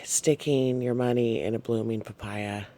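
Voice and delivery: hushed, mildly mocking; a touch of scorn under the breath; whispered derogatory. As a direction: whisper it like a sly jab. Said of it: "It sounds kinda derogatory".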